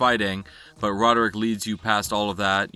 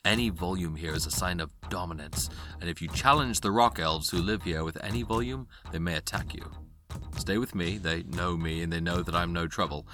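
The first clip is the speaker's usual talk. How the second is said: low, quiet, cautious warning; hushed guide; 4 semitones lower, 6 dB quieter than usual. Acted. Guide warning travellers about the rock elves, hushed. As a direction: keep your voice down as you guide strangers. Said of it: "not to raise your voice above a whisper".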